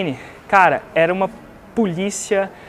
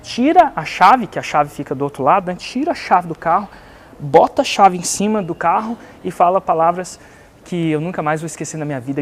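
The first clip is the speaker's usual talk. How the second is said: ordinary talk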